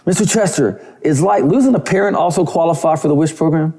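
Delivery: a hint of an eager teenage girl asking; imitating a singer. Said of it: "Rihanna calls me".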